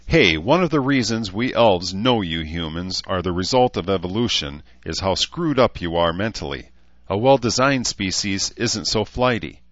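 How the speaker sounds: a hint of a frank, lecturing elf woman; lightly voiced blunt elf. Elf lecturing a human woman, lightly voiced blunt elf.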